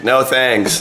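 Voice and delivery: high mock yell, held back; retold scream. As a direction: re-enact calling back to someone far away. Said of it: "I had to scream so loud".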